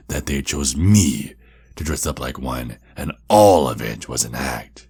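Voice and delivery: "me" and "all" swelling loud; taunting emphasis. Acted. Vampire taunting Red with a what-if, heavy emphasis on "me" and "all". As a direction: punch "me" and "all", drawing them out.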